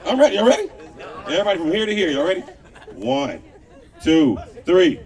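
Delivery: shouting countdown; hype countdown. Real, not acted. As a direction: pump up the crowd. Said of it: "On the count of three".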